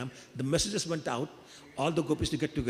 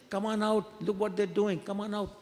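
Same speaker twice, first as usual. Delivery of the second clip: higher-pitched calling, little extra volume; mild shout; 6 semitones higher than usual. Acted. Krishna calling friends outside their houses, mild shout. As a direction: call friends out, pitched up but restrained. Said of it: "Krishna's shouting".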